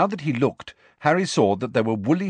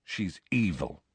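flat and quieter, no lift; 6 dB quieter than usual. Acted. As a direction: state it without feeling. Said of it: "said Harry flatly".

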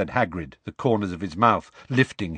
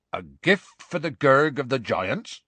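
retold formal offering; 5 semitones higher, 3 dB louder than usual. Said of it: "and said".

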